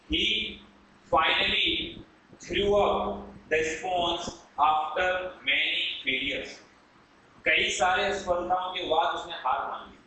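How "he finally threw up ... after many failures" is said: slow, word-by-word repeat; measured teacher's dictation. Shown as a demonstration. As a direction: read it out slowly for writing down. Dictating an example sentence.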